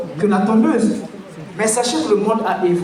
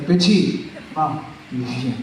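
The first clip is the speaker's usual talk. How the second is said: a lightly lowered, heavy barber voice; deep big voice; 9 semitones lower, 5 dB quieter, slower than usual. Retold or imitated. Barber calling the kid over in a lowered big voice. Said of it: "le gars, il a une grosse voix".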